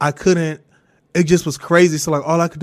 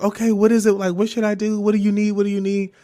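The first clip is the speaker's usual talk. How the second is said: higher, lightly imitated concerned mom; mommy mode; 5 semitones higher than usual. Mom asking daughter what she needs, lightly acted concern. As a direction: fire off questions like a concerned mother. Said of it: "she really hopped into mommy mode".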